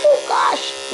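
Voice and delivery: high, drawn-out cooed alarm; mock dismay. Groomer sympathizing with a fighting puppy, mock dismay. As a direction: play up dismay in a high pet-talk voice.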